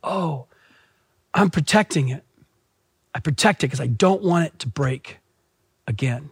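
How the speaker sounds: put-on soft, small child's explanation; lightly voiced child, hushed; little daughter's voice. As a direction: confide it quietly like a little girl. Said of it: "She goes".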